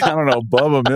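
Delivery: playful Forrest Gump impression. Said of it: "I just thought Forrest Gump".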